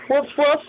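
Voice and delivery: light mock woof; dog bark demo. Shown as a demonstration. Parent teaching baby the dog sound, playful woof. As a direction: bark like a puppy. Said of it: "Doggy says".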